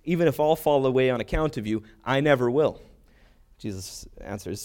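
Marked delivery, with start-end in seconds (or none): 0.0-2.8 firm, slightly raised declaration; mildly boastful, stress the vow; boastful claim. Retold or imitated. Peter pledging loyalty to Jesus, boastful. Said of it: "his boastful claims".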